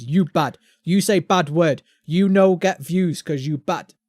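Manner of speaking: slow, loud broken-English robot; clunky caveman robot talk. Retold or imitated. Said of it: "The robot watches us".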